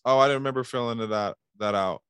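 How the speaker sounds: fretful, accommodating repeat; wrong sales tone. Acted. Salesman showing the wrong tone to a client, overconcerned. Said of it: "But if my tone was".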